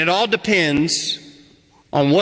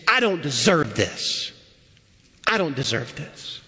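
resentful complaint; 4 dB quieter than usual. Pretend. A churchgoer griping to God about being shortchanged, resentful. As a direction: grumble it like you've been cheated. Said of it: "it's the same phrase, but it sounds a whole lot different".

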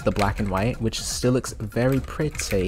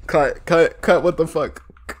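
loud, raised demand to cut; exasperated outburst; 3 semitones higher, 3 dB louder than usual. Real, not acted. Player calling to cut the recording, exasperated.

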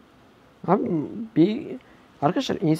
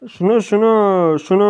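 heated yelling; 3 semitones higher, 4 dB louder than usual. Real, not acted. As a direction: hammer each word at the enemy.

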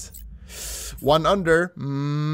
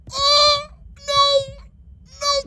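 much higher and louder cry of no; anguished shout; 5 dB louder, much slower than usual. Real, not acted. Player cries out as the ball misses the hole. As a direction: wail it as the ball slips past.

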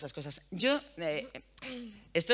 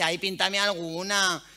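put-on slow, coaxing child's plea; son asking sweetly; 5 dB louder, slower than usual. Son asking his mother to paint his nails, slow coaxing plea. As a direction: wheedle it like a little boy asking mum. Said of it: "me dice".

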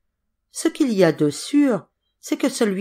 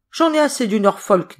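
a light hint of a boozy, coarse servant; slightly slurred and gruff, a tipsy servant fed up; drunken voice; 4 semitones higher, 4 dB louder than usual. Hudson announcing at the dinner table he is leaving, mildly drunk. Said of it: "d'une grosse voix avinée".

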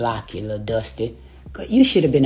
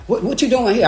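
startled ex; 8 semitones higher than usual. Retold or imitated. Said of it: "he was like".

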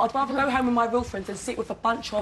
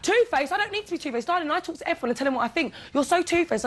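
high-pitched, heated comeback; indignant retort; 5 semitones higher than usual. Real, not acted. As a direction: fire the accusation straight back, pitch up. Heated real quarrel, throwing accusation back.

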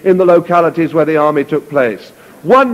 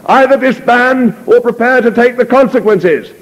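threatening officer; 8 semitones higher than usual. Acted. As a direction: threaten them from the saddle.

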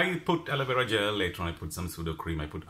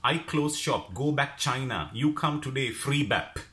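broken English; 5 semitones higher, 3 dB louder, slower than usual. Retold or imitated. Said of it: "'cause her English is not, like, really, really good".

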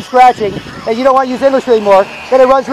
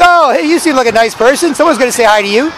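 mock zombie voice. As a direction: play the sketchy zombie sweet-talking a stranger. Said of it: "They're like".

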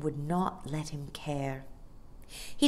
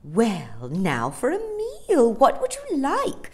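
lightly voiced chummy dolphin hostess; Amelia the hospitable dolphin; 8 semitones higher, 5 dB louder than usual. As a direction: offer food, lifting high on the question.

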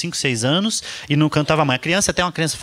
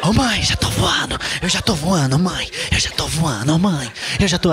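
mock child's singsong; slower than usual. Little girl pestering her mother mid-flight, chanting singsong. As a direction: sing it like a pestering kid. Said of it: "Ela falou".

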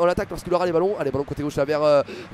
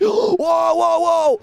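high, loud string of wows; shocked exclamation; 10 semitones higher, 6 dB louder, much slower than usual. Real, not acted. Commentator watching Charé go at supporters, high and stunned. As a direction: blurt it out in disbelief.

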